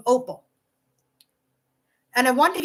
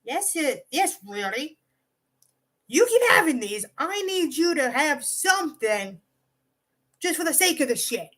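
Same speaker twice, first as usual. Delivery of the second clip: playful mock insistence, rising in pitch; 3 semitones higher than usual. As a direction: retell it as teasing insistence. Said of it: "it's a playful tone of like".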